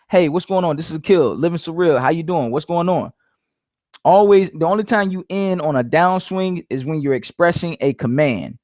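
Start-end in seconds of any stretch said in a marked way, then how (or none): 0.1-3.1 slightly raised telemarketer greeting; mildly high-pitched sales opener. Shown as a demonstration. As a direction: keep the phone greeting pitched up and moving. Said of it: "When you have high-pitched voice".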